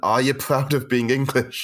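put-on working-class Scottish accent. Retelling a question kids at school in scotland asked: imitating a working class scottish accent. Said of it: "people with a working class Scottish accent".

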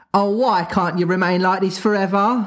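high, cried-out exclamation. Mrs. Darling speaks to Wendy in the story, crying out. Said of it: "put her hand to her heart and cried".

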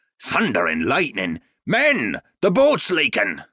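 sudden, loud, rising, bellowed pirate shout. Narrator reads a pirate alerting his crew: bellowing out. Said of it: "suddenly bellowed out".

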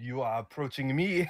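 fake French accent in English. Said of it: "with a French accent in English".

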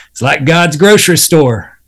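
put-on country accent. Retelling what a gigging buddy says, in a country accent. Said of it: "he says in this wonderful country accent".

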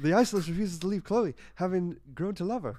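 high Boston accent. Reading a recap aloud when a celebrity is called out: Mark Wahlberg voice. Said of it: "Mark Wahlberg".

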